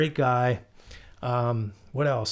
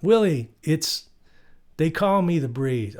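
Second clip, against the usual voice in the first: imitating the director; 3 semitones higher, slower than usual. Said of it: "you'd see the director say".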